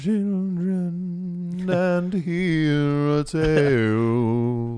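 slow, grand, drawn-out storyteller. Pretend. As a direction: summon the children round the fire. Mock storyteller opening a tale.

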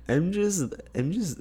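high-pitched, drawn-out mimicry; bad Kourtney Kardashian impression. Friend imitating a celebrity meme, bad high-pitched impression. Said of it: "in her voice. That's a really bad impression".

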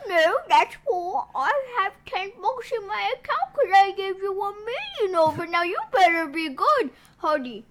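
British grandma. Acted. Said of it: "She's British".

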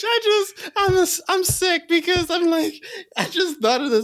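high, squeaky near-crying laughter; helpless laughter. Real, not acted. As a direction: barely get the words out for laughing. Helpless laughter at own idea.

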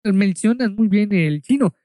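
put-on Spanish lightly tinged with a Chinese accent; halting, mildly accented imitation of a Chinese shopkeeper; imitated Chinese accent. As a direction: mimic a Chinese speaker feeling for the Spanish words. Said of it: "así con ese acento, con esa forma de decirlo".

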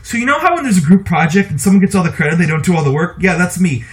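quick, breezy, casual delivery mocking a movie line; mock modern quip. Host mocking a Disney dragon's line, breezy and quick. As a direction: rattle it off like a smug sitcom kid. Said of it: "this is an actual line".

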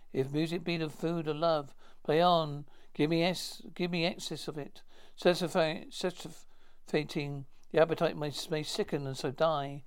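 a lightly declaimed Shakespeare verse; a touch of stage declamation; poem recitation. Acted. Will recites Twelfth Night.

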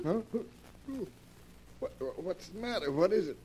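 muddled waking questions; groggy, startled. Acted. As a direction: stumble out of sleep into the words. Woken suddenly from sleep.

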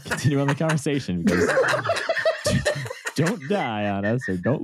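laughing while talking. Real, not acted. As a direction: giggle through the words.

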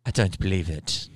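imitated British-Kiwi refusal; weird British-New Zealand accent. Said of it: "It was a weird accent".

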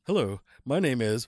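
deliberate, careful read-out; improved reading. Real, not acted. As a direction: read the greeting properly, with care. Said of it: "read it, read it better".

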